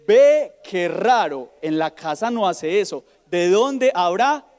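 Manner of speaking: slow, mock-innocent mother wondering aloud; feigned innocence. A mother at pickup, slowly feigning puzzlement. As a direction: drawl it like a clueless mom. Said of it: "La frase es".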